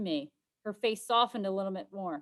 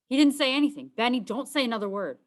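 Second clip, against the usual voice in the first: panicked hush; 5 semitones higher, 7 dB louder than usual. Acted. Panicked cover for brother.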